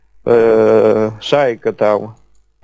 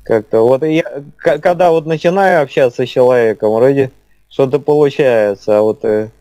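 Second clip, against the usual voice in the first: slowed speech. Real, not acted. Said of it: "у вас просто немножко замедленная речь".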